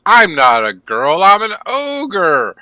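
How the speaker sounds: outraged high ogre protest. Acted. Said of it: "Was like".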